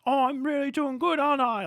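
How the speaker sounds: high, eager put-on kid voice; mock little brother. UK as little brother with unplugged controller, mock eager. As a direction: fish for praise like a small child.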